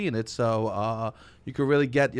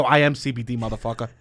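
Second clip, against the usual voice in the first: loud boastful retort; cocky comeback; 6 dB louder than usual. Retold or imitated. Answering the Denver clerk, loud and cocky. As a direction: throw it back at the clerk. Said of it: "I go".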